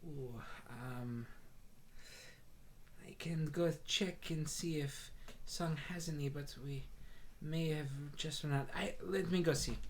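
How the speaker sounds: Moon the Tabaxi shopkeeper. Acted. Moon answers the customers.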